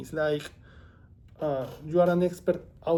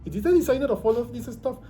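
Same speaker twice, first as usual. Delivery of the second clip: surprised; 8 semitones higher, 5 dB louder, faster than usual. Retold or imitated. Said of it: "that you are like".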